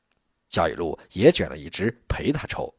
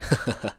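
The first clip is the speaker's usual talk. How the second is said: short, easy laugh; a brief chuckle at normal volume; 3 dB quieter than usual. A narrator's reading. District head amused by his comrade's outburst, chuckle. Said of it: "焦裕禄笑了".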